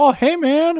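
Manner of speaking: relaxed, easygoing put-on voice. Imitating what Kevin Smith would say on meeting someone: Kevin Smith voice. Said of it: "That's what Kevin Smith always says".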